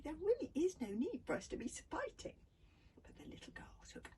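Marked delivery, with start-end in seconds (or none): 0.0-2.4 breathless. A narrator's reading. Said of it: "asked Hiccup breathlessly".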